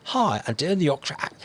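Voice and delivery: badly faked Yorkshire accent; terrible Yorkshire accent. Shown as a demonstration. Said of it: "It was a terrible Yorkshire accent".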